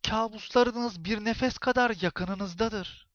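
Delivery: slow, high, otherworldly voice; haunt him slowly like a witch. A narrator's reading. Witch-like neighbor threatens Musa closely, slow eerie voice. Continues whisper into his ear.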